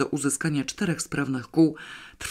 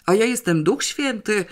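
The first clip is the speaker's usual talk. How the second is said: mildly angry retort, pitched up; suddenly cross, higher voice; sudden anger; 7 semitones higher, 3 dB louder than usual. A narrator's reading. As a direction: flare up in irritation. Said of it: "rozzłościł się nagle".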